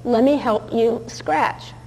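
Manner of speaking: slow, gentle coaxing; soothing offer to a pet; coaxing the dog. Retold or imitated. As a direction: sweet-talk the dog, very slowly. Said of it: "and I say".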